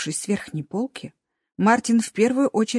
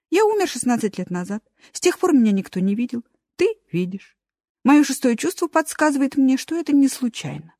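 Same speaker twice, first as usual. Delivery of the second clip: lightly voiced chatty hamster; a hint of a proud little hamster; squeaky hamster; 4 semitones higher than usual. Hamster introduces himself. (лёгкий голос хомячка)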